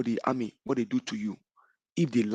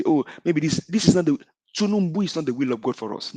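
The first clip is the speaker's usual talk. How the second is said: raised, mocking imitation of their excuse; parroting the other side, pitched up and dismissive; mock quote; 4 semitones higher than usual. Host mimics opponents' quick excuse, mildly mocking. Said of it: "what they can quickly say".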